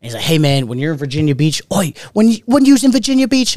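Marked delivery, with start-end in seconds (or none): 1.7-3.5 higher, badly faked Manchester accent; shitty Manchester accent. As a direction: attempt a Manchester accent and overdo it. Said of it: "I can't do a fucking shitty accent".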